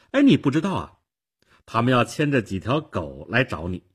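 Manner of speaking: put-on high, loud girlish astonishment; astonished little girl; very surprised. A narrator's reading. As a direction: react amazed that they haven't heard. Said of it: "小姑娘非常惊讶地说".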